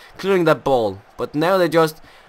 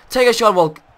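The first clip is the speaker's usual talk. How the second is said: excited urging; 6 semitones higher, 6 dB louder than usual. Real, not acted. Urging player to shoot.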